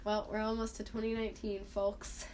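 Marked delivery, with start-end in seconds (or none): 1.6-2.3 "folks" with the L sounded; pronounced L. Real, not acted. Host signing off to listeners, L sounded in "folks". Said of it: "Why do you pronounce the L".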